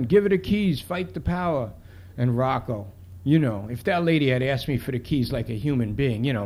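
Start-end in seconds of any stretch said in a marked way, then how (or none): 0.0-1.7 high opening, mild mock yell; imitated crowd yell. Crowd yelling at the cop over keys, restrained imitation. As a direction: call it out as one of a crowd. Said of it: "Everybody's yelling".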